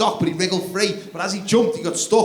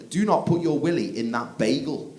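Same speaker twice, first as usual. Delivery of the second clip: stern parent. Retold or imitated. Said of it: "I said to him".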